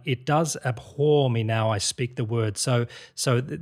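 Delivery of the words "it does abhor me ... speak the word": "abhor" weighted on its second syllable; rhythmic demo line with "abhor" stressed late. Shown as a demonstration. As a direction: show the verse rhythm, landing on the "hor" of "abhor". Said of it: "there's an emphasis on the second syllable of that word".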